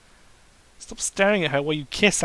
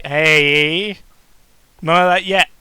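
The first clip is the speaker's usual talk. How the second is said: startled shout; 10 dB louder, slower than usual. Acted. Pony jumps on him.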